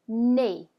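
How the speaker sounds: "nez" as "nay", Z silent; French pronunciation. Shown as a demonstration. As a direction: model "nez" to rhyme with English play. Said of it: "play in English".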